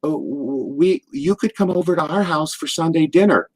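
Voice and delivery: lightly put-on New York accent; Missus Hart. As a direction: invite them over in a New York accent. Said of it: "with that New York accent".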